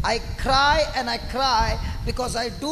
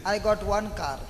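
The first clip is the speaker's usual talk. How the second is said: lower, mildly dejected comparison; mock material sorrow; 4 semitones lower than usual. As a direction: play a touch of self-pity. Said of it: "Material sorrow". (லேசான போலி வருத்தத்துடன்)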